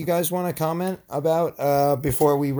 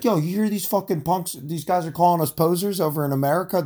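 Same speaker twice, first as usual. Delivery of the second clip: skit British voice; 5 semitones higher than usual. Pretend. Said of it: "Let's do a skit".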